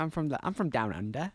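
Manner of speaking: put-on playful Australian accent, rising at the end. Player jokes about being Australian, Australian accent. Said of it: "workshopped Australian".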